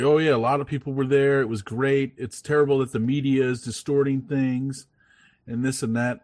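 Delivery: hammed-up bragging officials brushing off the press; mocking politicians. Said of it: "'cause they're like".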